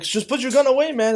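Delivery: retold pleading. Pleading with cop pointing gun.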